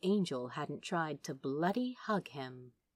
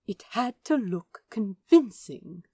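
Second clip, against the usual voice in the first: insistent; 3 semitones higher, 5 dB louder than usual. Acted. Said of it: "He sounded so insistent".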